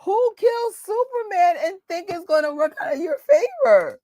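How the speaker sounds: high, hammed-up wail of grief; fake-cry it like a wrecked fan; mock sobbing. Mock sobbing over Superman's death.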